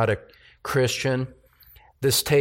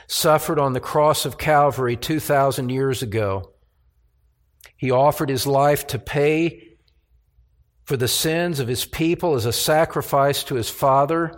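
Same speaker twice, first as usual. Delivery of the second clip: preaching; 2 semitones higher than usual. Acted. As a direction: proclaim it from the pulpit, measured and strong. Preaching the cross with force.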